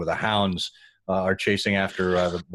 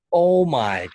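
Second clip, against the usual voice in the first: much higher and louder Oh my God; amazed; 7 semitones higher, 5 dB louder, much slower than usual. Real, not acted. The speaker reacting to Alan's answer, high and loud amazement. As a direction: gasp it out in disbelief.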